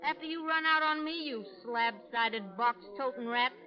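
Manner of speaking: loud, rising insults; jealous tirade. Acted. Calamity berating Bill over the lady, furious. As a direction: lay into him with scorn.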